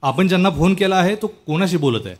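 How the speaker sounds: lightly mimicked operator message, no question in it; mock phone recording, neither question nor exclamation; recorded phone announcement. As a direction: recite it like an automated phone lady. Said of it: "आता त्यात उद्गार पण नाही, प्रश्न पण नाही".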